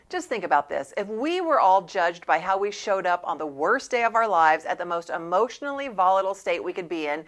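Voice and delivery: ordinary talk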